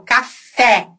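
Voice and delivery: "café" ending in open é, as in "pet"; Portuguese open e. Shown as a demonstration. Teacher recapping Portuguese, open final é. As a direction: open wide the last vowel of "café".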